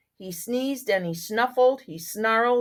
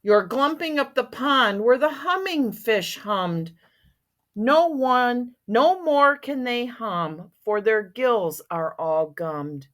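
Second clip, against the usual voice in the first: angry Lorax. Acted. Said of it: "He's getting angry".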